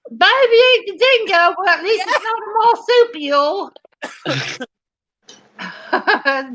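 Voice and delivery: high mock Aussie accent; bad fake Australian. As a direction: ham up terrible Australian, stretching the last word. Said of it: "keep pretending that it's Australian".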